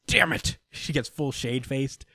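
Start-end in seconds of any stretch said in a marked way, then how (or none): 0.1-0.6 mock exasperation. Retold annoyed reaction to niece.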